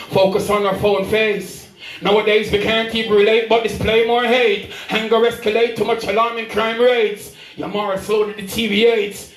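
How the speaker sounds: driving, rhyme-led recital; spoken-word poem. Acted. Poet lamenting hate and social media, spoken-word recital. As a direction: land on each rhyme as you declaim.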